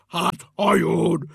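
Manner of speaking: loud, slow, delighted answer; gleeful eureka; cheered up. A narrator's reading. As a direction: proclaim the bright idea. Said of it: "s rögtön vidámabb lett".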